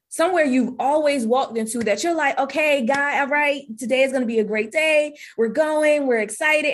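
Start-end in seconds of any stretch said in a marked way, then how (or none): 2.4-6.7 bright, higher self-talk psyching up for the day; lightly voiced upbeat self-pep; hopeful pep talk. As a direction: talk yourself into a great day, a little lifted. Hopeful self-talk walking into salon.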